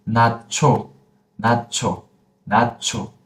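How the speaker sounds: nacho with a stopped t before cho; joined-word pronunciation. Shown as a demonstration. Teacher models the whole thing, nacho with a stop midway. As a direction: close the first syllable of nacho, then cho. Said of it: "the whole thing we pronounce it".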